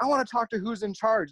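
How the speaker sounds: high-pitched imitation of an irate customer; mock yelling. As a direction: imitate her yelling demand. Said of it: "she's yelling at Stacy".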